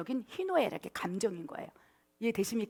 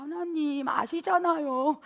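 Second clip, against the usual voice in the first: drawn-out, higher coaxing plea; playful aegyo pleading; 4 semitones higher, slower than usual. Acted. Preacher showing how to coax God with aegyo, drawn-out cutesy plea. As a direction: wheedle slowly, stretching out the endings. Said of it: "하나님 앞에 애교를 부리는 거야".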